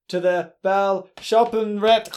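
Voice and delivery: slow mangled French accent attempt. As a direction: butcher the French name slowly. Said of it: "He's trying to speak French".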